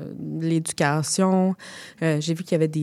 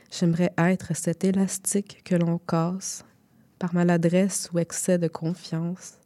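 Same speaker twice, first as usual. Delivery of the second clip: poem reading. Acted. Reads zine extract aloud.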